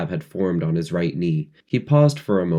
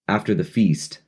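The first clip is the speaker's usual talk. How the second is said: ordinary delivery, nothing marked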